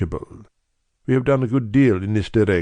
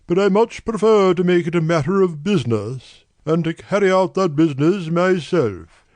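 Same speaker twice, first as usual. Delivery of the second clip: much higher, deliberate voice of a great nobleman; brusque nobleman; 7 semitones higher than usual. A narrator's reading. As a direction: push through a distasteful errand. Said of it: "with the air of a man who wishes to hurry quickly through a disagreeable task".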